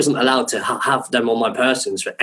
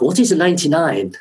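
higher-pitched puzzled question; mildly mystified, pitched up; baffled question; 5 semitones higher than usual. Retold or imitated. Fashion designer puzzled by an ice cream, baffled.

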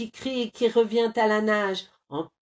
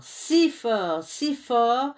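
"si fort" rising higher and louder each time; building effort; 4 semitones higher, 4 dB louder, slower than usual. A narrator's reading. Narrator building the bear's squeeze, rising. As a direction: push harder on every "si fort". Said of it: "building squeeze".

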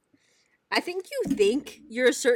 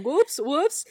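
higher-pitched mocking echo; taunting imitation, pitched up; 6 semitones higher, 4 dB louder than usual. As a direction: parrot it back at him. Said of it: "like, mocking him".

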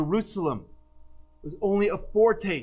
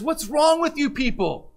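much higher, louder, slow exasperated outburst; R C Sproul exasperated; 8 semitones higher, 4 dB louder, slower than usual. Retold or imitated. Sproul rounding on the questioner, higher, louder, exasperated. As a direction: fling it back, higher and louder, drawn out. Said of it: "R C Sproul turns and says".

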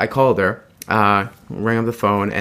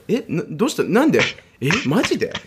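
higher, startled mock girl firing questions; a lightly raised, disbelieving girl; surprised girl; 6 semitones higher than usual. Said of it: "she was really surprised".

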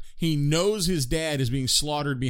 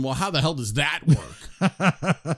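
baffled; much slower than usual. Retold or imitated. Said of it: "Now I'm going".

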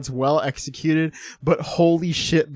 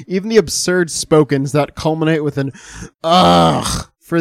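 reading a quote aloud; 6 dB louder than usual. Acted. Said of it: "I have a quote here".

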